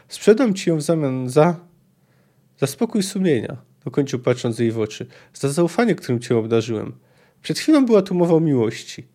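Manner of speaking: lively audiobook reading of a novel; story narration. A narrator's reading. Narrator reading a Witcher passage to listeners, lively story reading. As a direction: read the scene aloud like an audiobook.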